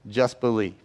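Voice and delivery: low, soft and measured; hushed, grave reading. Retold or imitated. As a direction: say it low and softly, as solemn scripture. Reads Jesus' words to grieving father.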